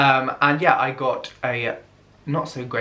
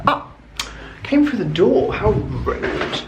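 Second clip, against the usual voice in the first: surprised; 7 semitones higher, 4 dB louder, slower than usual. Real, not acted. Parcel arrives.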